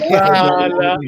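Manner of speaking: "Sala" with the first "a" held long; long vowel. Shown as a demonstration. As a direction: stretch the first vowel, "Saala". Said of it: "make sure you got the long vowel".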